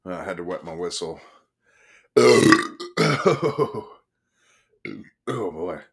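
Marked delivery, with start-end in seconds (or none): 2.1-3.8 coughing. Real, not acted. Reader coughs after drink.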